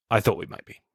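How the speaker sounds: dry, understated quoted delivery; deadpan. Retold or imitated. Podcaster quoting Morgan after the killings, deadpan. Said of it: "so deadpan and dry".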